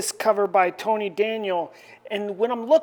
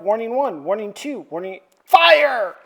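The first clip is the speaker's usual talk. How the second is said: mock military shout; 6 dB louder than usual. Department H fires on mutants.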